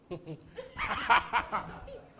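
drawn-out mocking laugh, demonstrated; long derisive laugh acted out; scornful laugh. Shown as a demonstration. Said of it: "He laughs them scorn".

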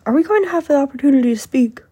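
loud, fast indignant demand; indignant senator. Retold or imitated. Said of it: "very, very angry".

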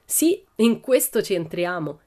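slow, deliberate stress on "Sì, in questo"; emphatic. A narrator's reading. Pippi agreeing to enter, slow emphasis on "questo". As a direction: declare "in questo ci entriamo" with weight. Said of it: "esclamò Pippi con enfasi".

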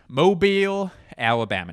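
Mobile shouted high and loud, Alabama dropped; announcer hype. Pretend. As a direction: bark the city like a ring announcer. Hype announcement of city name.

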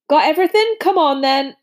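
gruff, hearty giant voice; big friendly giant talking; Hagrid voice. A narrator's reading.

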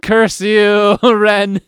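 cartoon villain curse. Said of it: "and he's like".

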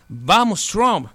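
imitating a gringo accent in Spanish; light American-accented "Vamos, Trump". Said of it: "con acento gringo".

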